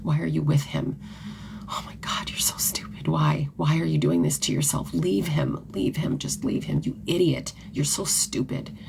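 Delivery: a hint of a cruel self-scolding whisper; harsh inner voice. Woman scolding herself in the mirror, mild whispered contempt. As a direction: hiss insults at yourself in the mirror. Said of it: "and I would be like".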